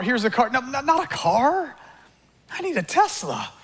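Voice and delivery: lightly voiced greedy man, rising and insistent; greedy whiner. Preacher acting out a greedy believer, mildly whining. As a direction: whine for something bigger each time.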